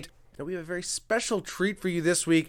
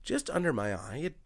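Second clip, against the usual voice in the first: soft tutorial voice; 6 dB quieter than usual. Pretend. Makeup vlogger narrating a murder case, softly.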